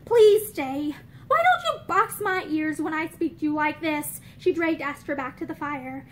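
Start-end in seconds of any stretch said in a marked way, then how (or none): 0.0-0.9 crying, begging her to stay; tearful plea. Acted. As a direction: plead through tears. June pleading, crying.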